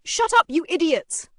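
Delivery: loud, high angry shout; barking back. A narrator's reading. Bully answers the protesting student, barking angrily. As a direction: bark it at the whole group. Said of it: "He barked back".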